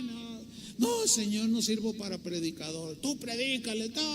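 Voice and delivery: soft, defeated plea; dejected prayer. Retold or imitated. A hurt young pastor tells God he quits, softly dejected. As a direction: give up quietly, hand it to God. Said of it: "y me ofendía y estaba mal".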